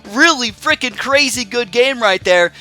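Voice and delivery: shaky, adrenaline-charged voice. Real, not acted. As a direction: voice trembling from adrenaline. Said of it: "you guys can tell my voice is, like, shaky".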